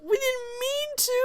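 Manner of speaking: high, whimpering mock plea; scared stammer. Scared friend apologizing to Lucifer, mock whimpering stammer. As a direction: stammer it in an exaggerated frightened squeak. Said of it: "you're scared".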